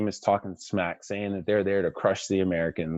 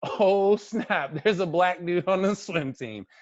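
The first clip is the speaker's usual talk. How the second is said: a hint of a teasing star, higher and louder; lightly voiced LeBron; 11 semitones higher, 5 dB louder, slower than usual. LeBron teasing the swimmer in front of everyone, lightly voiced. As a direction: tease it like a joking star. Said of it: "And he goes".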